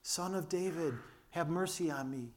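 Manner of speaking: a beggar's cry, only half shouted. Pretend. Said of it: "shouts louder".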